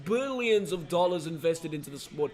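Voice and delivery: imitation American politician voice; Donald Trump. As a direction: do an impression of a boastful American president. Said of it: "my Donald Trump?".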